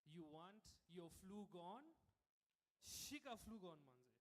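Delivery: slow, loud hawker pitch; street hawker. Acted. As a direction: hawk it like a street seller. Street seller hawking medicine.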